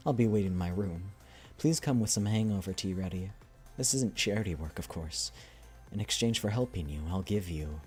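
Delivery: soft, measured story reading; unhurried dramatic reading, trailing softly at the end; message read aloud. Acted. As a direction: read the letter out gently and evenly. Reads a character's message aloud.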